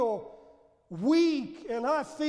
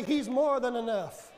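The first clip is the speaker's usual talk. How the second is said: call and response. Shown as a demonstration. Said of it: "Somebody say".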